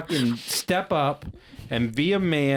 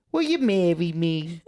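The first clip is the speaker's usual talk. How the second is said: higher, silly cartoon voice for the proposal; goofy proposal voice; 5 semitones higher than usual. Proposing to his fiancée in a goofy voice. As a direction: pop the question in a dumb cartoon voice. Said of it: "I don't know why the fuck I went with that voice".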